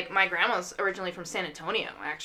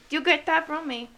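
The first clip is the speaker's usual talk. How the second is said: raised-pitch boastful grandma impression; immodest grandma; 7 semitones higher than usual. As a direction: claim the credit as a proud grandma. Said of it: "Grandma's like".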